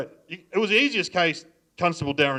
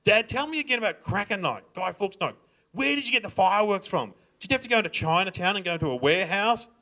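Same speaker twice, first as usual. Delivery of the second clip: put-on lightly raised eager teen voice; teenage son; 6 semitones higher than usual. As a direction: play the curious son, higher and eager. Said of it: "He goes".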